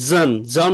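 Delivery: জন said clearly and firmly; stressing the ending. Shown as a demonstration. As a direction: hit the ending জন. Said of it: "not শন".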